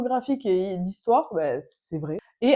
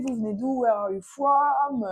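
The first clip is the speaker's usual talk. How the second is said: imitated American; 5 semitones higher, slower than usual. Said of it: "on rencontre un Américain".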